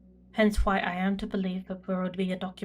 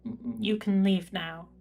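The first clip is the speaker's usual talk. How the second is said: slow, stumbling, weary second dismissal; exasperated repeat. Acted. Prefect repeats the dismissal to the lingering servitor, exasperated and slow. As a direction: drag it out, tired of repeating.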